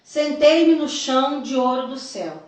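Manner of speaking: deliberate, emphatic reading aloud; solemn testimony reading. A narrator's reading. Telling the church of a vision from Jesus, solemn reading. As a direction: read it out as a weighty revelation. Reads out written vision account.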